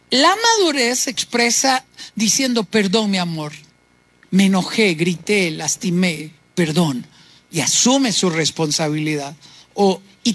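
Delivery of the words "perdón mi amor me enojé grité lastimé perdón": sincere apology. Retold or imitated. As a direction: apologize tenderly to your spouse, sinking lower. Voicing a mature apology.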